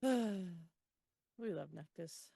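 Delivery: dreamy sigh. Real, not acted.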